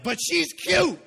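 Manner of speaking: high, loud laughing protest; sheepish laugh; laughing excuse. Retold or imitated.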